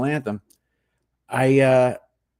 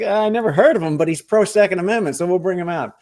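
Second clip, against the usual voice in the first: quoted organizers; 5 semitones higher than usual. Retold or imitated. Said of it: "So they're like".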